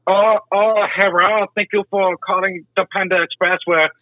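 high-pitched put-on Asian accent; mock Asian accent. Restaurant employee taking a phone order, mock Asian accent. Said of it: "Asian accent".

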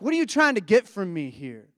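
a touch of put-on irritation; mock annoyed. Jesus asking his followers their motive, imitated as mildly annoyed. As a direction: question them as if mildly bothered. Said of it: "a bit annoyed or something".

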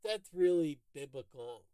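imitating Larry. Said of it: "I can't do the cadence right".

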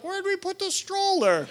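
high, bewildered wondering; as if suddenly missing it; puzzled question. Retold or imitated. Parent realises the stroller is gone, high and puzzled. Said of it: "you're like".

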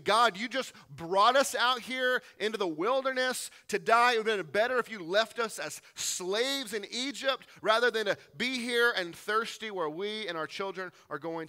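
loud, high grumbling protest at God; complaining outcry. Acted. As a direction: hurl the complaint like a desperate crowd. Israelites complaining voiced in sermon.

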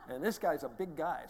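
loud laugh through the words. Real, not acted. Laughing at the scene.

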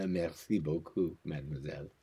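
put-on French suitor; French accent. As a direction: answer a compliment in mock French. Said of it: "That was your French accent?".

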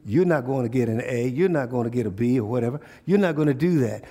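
voicing Satan. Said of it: "He's talking to you".

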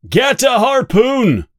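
sharp high shout for the harpoon; urgent cry. A narrator's reading. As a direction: yell it out urgently. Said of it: "cries Quint".

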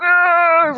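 high, drawn-out "argh" of frustration; playful, high-pitched groan of fury; mock rage growl. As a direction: imitate a raging bandmate's roar. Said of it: "raging, you know".

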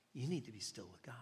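quietly insist, patient and gentle; calm older lady. Retold or imitated. Lady gently repeats her counsel.

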